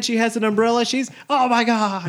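high, slowed gasping gossip; mock gossip reaction. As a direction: drag out the shocked oh my God. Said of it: "She shaved her head".

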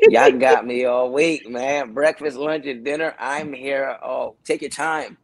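loud, slow overeager; eager. Retold or imitated. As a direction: lay it on thick. Overeager joking about staying.

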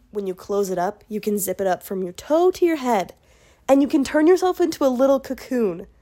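upbeat sales pitch read; infomercial voice. Acted. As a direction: sell it like a TV ad. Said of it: "I sound like an infomercial".

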